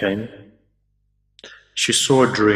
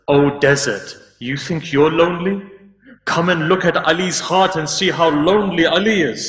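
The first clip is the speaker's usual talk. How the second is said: higher-pitched, imploring cry to the desert, retold; impassioned lament; 5 semitones higher than usual. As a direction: call out Ali's loneliness in a raised, pleading pitch. Preacher voices Ali's lament to desert.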